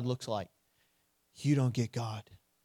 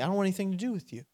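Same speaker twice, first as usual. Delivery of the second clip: offhand rejection; 3 semitones higher, 5 dB quieter, much faster than usual. Acted. Acted rejection of God.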